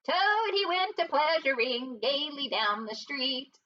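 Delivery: slow, high, lightly squeaky singing; a hint of a squeaky weasel crooning. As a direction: chief weasel sings a mocking song about Toad, squeaky. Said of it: "began in a high, squeaky voice".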